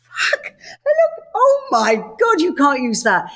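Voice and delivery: slow, high, crying wail of dismay; mock horror. A host seeing her first unflattering footage, wailing in mock horror. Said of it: "and I'm like".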